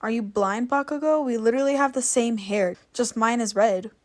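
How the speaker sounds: mildly annoyed protest; understated irritation at the nickname; irritated. Acted. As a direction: push back, a little exasperated. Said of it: "Kirishima sounded irritated".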